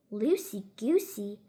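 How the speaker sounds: a hint of a baffled old gentleman, drawn out; puzzled Mister Putter. Mister Putter puzzled by odd word.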